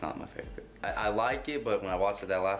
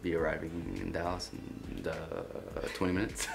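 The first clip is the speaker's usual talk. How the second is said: pilot announcement voice; 3 semitones lower, 4 dB quieter than usual. Retold or imitated. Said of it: "You sound like a pilot".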